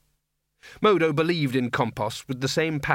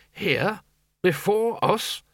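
higher, affronted wizard; indignant dean; 7 semitones higher, much slower than usual. Acted. The dean to the wizards about the priests, affronted. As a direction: sound put out that rivals came first.

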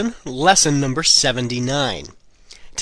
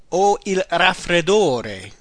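slow, careful model phrase; 2 semitones higher, slower than usual. Shown as a demonstration. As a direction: give the learner every syllable. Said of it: "The next one is".

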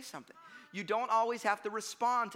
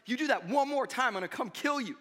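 imitating an angry older kid, raised and loud; mock-menacing playground threat; 5 semitones higher, 6 dB louder than usual. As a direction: act out a bully's final warning. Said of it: "he finally gets angry at me".

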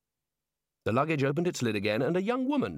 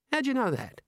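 put-on higher young woman, unhurried and matter-of-fact; Neilette's voice; 12 semitones higher than usual. Girl in the luggage asks Rincewind for help, high voice. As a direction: voice the girl asking for a hand.

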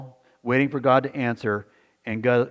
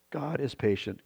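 softer, tender echo of the phrase; softer repeat; 2 semitones higher, 6 dB quieter than usual. Shown as a demonstration. Pastor repeating to his flock, softer tender echo. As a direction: let it land gently the second time.

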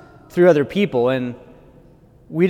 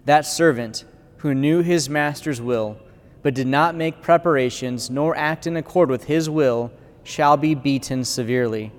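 solemn proclamation of Scripture; gospel reading. Acted. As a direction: read it like at the altar, measured.

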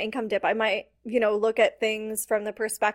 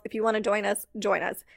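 easy, laid-back, dropping lower; relaxed invite; 3 semitones lower, 3 dB quieter than usual. Retold or imitated. Coach showing her new calm marketing, relaxed low invitation. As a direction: offer it casually, no pressure at all. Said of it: "to, like".

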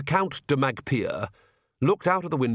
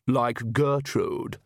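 slow, drawn-out taunt; sneering; much slower than usual. Acted. Brother taunts his sister over names, sneering. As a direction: stretch the name mockingly. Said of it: "sneered Vlad".

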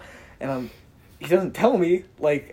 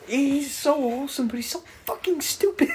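higher, laughing through words; laughing fond exasperation; 10 semitones higher than usual. Real, not acted. Mocking his friend fondly, laughing. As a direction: near tears of laughter.

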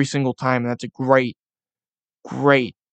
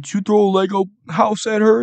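parent scolding; 6 semitones higher than usual. Retold or imitated. Parent scolding sibling in example.

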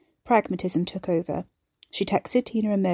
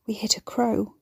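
partly voiceless, hushed whisper; 2 semitones higher than usual. A narrator's reading. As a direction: whisper it, in mild shock. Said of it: "Carrie whispered".

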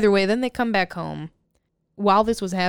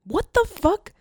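explosive rage; 12 semitones higher than usual. Real, not acted. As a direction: yell it in disbelief. Outraged at the scene.

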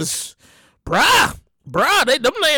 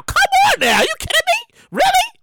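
exasperated. Real, not acted. Exasperated about masks.

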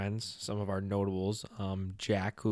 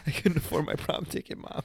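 put-on whiny kid; 7 semitones higher than usual. Mock whining to mom.

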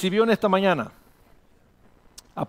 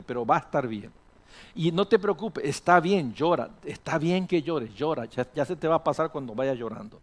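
madre que consuela; 2 semitones lower than usual. Acted. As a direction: soothe and give permission to cry. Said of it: "lo agarra y dice". (mamá tranquilizadora, con voz serena)

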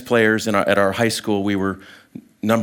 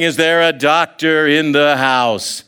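slow, louder call with a playful lilt; mock yell; 4 semitones higher, 4 dB louder, slower than usual. Friend still calling out while approaching, teasing loud yell. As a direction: keep shouting it teasingly as he gets closer. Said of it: "he's still yelling".

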